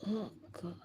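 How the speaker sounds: high breathy whisper of dread; whispered awe; whispered oh God. Real, not acted. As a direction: breathe it in shock. Overwhelmed by a vision.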